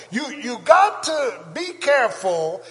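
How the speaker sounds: slow, loud drawn-out warning; preaching shout. Real, not acted. Pastor warning parents, slow loud shout.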